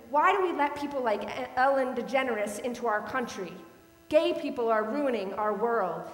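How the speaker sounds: loud, mock bellow of an angry stranger; retold bellowing bigot. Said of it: "He was bellowing this, yelling this".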